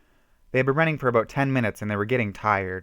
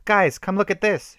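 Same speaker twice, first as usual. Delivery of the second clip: high, loud excited call; shouted; 10 semitones higher, 5 dB louder than usual. A narrator's reading. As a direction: call the group over urgently. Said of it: "she shouted".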